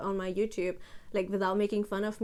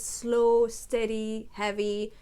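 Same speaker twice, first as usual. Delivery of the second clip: slow, weighted word-by-word delivery; slow, steady, heavy; much slower than usual. Shown as a demonstration. Showing viewers the original voice, slow and heavy. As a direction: give each word weight, unhurried. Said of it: "talk in my original voice".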